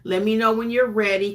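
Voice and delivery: soothing client talk, unhurried; reassuring. Shown as a demonstration. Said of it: "just use reassuring language".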